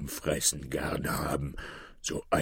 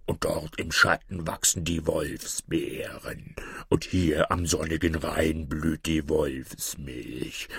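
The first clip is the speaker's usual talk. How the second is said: cunning wolf, slow and whispered over the herb names; lightly voiced scheming wolf; sly wolf; 3 semitones lower, slower than usual. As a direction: whisper the poison herbs like sweet secrets. Wolf names poisonous herbs.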